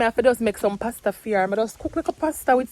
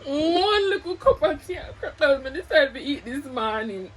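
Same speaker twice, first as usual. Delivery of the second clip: laughing; 4 semitones higher than usual. Real, not acted. Laughing and crying at once.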